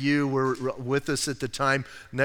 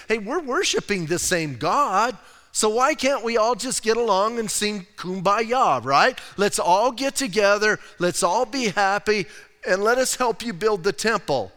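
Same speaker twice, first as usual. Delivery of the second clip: chummy pitch; 5 semitones higher, 3 dB louder than usual. Retold or imitated. Mimics outsiders pitching friendship and help.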